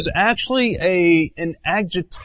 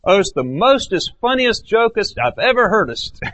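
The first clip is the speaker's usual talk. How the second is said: mock gushing superlatives; 6 semitones higher than usual. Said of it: "We use superlatives".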